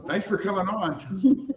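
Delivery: slow, drawn-out announcer delivery; radio announcer voice. Shown as a demonstration. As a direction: ham up the radio host sign-off. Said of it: "I just sounded like a radio announcer".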